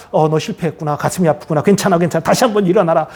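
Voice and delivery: gentle, sympathetic reassurance; comforting. Acted. Kind God to someone who has failed, comforting. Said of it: "격려하고 세워주시는 하나님이세요".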